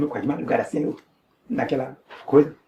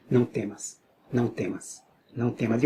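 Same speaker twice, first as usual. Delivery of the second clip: retold divine voice; 4 semitones lower, 7 dB quieter, slower than usual. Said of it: "a voz mais alta ainda".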